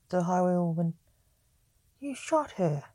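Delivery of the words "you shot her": accusing. A narrator's reading. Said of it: "said John accusingly".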